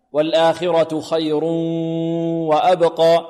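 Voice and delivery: slow recitation, long nasal hum from خير into وأبقى; nasal ghunna. Shown as a demonstration. Teacher shows the nasal passage, خير humming into وأبقى. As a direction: send the join of خير and وأبقى through the nose. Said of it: "الذي يخرج من الخيشوم".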